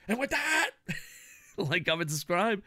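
bouncy catchphrase sign-off; sing-song sign-off. Shown as a demonstration. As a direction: lilt it like a catchphrase. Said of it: "it's like".

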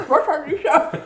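loud, laughing through the line; laughing mock take. Shown as a demonstration. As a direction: show him how, giggling. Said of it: "not say it like you have marbles in your mouth".

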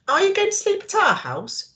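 lightly voiced curious young mouse; child's question. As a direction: pitch it up like a small girl asking. Child character asks.

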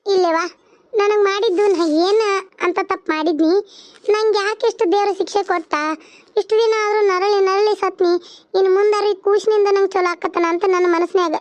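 plaintive, mildly tearful pleading; tearful lament. Acted. Sharada, told to wipe her tears, laments God's punishment, tearfully. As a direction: lament your suffering as if holding back tears. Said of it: "ಅಳಾಕ್ ಹೋಗ್ಬೇಡವ, ಕಣ್ಣೀರ್ ಒರೆಸ್ಕೊ".

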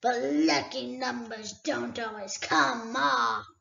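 a great dragon toying with a thief; dragon Smaug. Acted. Smaug answers.

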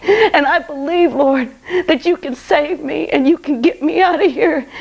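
pleading through sobs; crying while praying. Real, not acted. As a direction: voice cracking with real crying as she begs Jesus. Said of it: "I'm just sobbing".

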